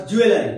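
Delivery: "জুয়েলারি" said as "ju-e-la-ri", four syllables; common mispronunciation. Shown as a demonstration. Teacher showing what we usually say, "জুয়েলারি" as ju-e-la-ri. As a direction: say "জুয়েলারি" with a full "la".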